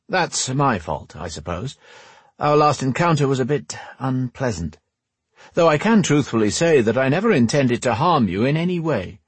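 smooth things over in a slightly put-on rogue voice; suave rogue. Voices Bane in the story.

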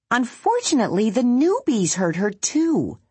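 a little creature hurrying the news; Bongo the critter. A narrator's reading. Bongo to the tree about the babies, a high quick small-animal voice.

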